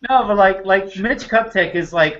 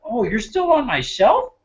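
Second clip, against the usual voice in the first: mock sly coach; 6 semitones higher than usual. Voicing coach finding old bottle.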